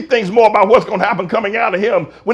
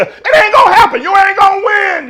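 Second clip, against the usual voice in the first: shouted warning; 11 semitones higher, 4 dB louder than usual. Real, not acted. Preacher repeats warning.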